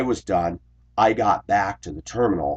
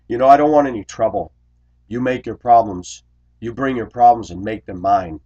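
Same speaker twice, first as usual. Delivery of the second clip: louder, higher start, easing down; lightly acted indignant warning; imitated confrontational text; 3 semitones higher, 6 dB louder than usual. Reading out the driver's text, mildly combative.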